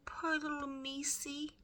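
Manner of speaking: Meg's voice. A narrator's reading. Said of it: "she said".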